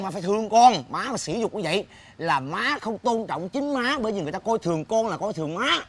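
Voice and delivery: coaching a bold speech to mother; demonstrated talking back to mother. Shown as a demonstration. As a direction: show how to lecture mom firmly. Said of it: "Mày chửi vậy nè". (làm mẫu cách cãi lại má)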